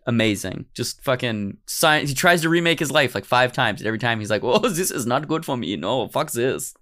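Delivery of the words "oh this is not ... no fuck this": mildly fed-up mock German accent. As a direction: give up in comic German English. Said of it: "I don't know why he has a German accent".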